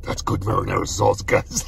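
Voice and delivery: low, talking through a mouthful; chewing while talking; mouth full. Real, not acted. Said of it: "So good I can't even talk".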